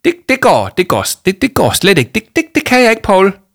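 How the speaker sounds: high, loud, stumbling over repeated words; panicked stammer. A narrator's reading. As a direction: stammer out a distressed protest to Paul. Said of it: "stammede hun". (højlydt, panisk stammen)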